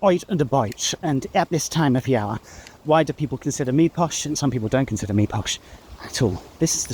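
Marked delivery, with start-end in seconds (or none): 0.0-0.9 imitating a posh royal accent; lightly mimicked upper-class British accent; royal family accent. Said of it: "royal family say things like". 1.3-2.4 lightly imitated posh royal English; a touch of upper-class British parody; royal family accent. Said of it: "royal family say things like".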